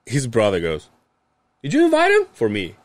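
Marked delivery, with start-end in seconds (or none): 1.6-2.3 imitated accusing question. Brother accusing in the retold scene.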